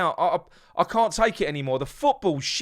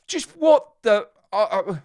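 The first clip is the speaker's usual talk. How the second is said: exasperated; 5 semitones higher, 5 dB louder, slower than usual. Real, not acted. Exasperated outburst at substitution.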